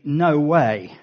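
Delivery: a firm, emphatic "No way". Shown as a demonstration. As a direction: put weight on "No way". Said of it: "the equivalent of saying".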